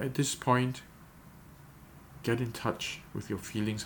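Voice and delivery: unhurried guided prayer with long pauses; guided meditation. Acted. Pastor guiding listeners to picture the scene, calm guided meditation. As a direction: lead them gently inward, pausing after each prompt.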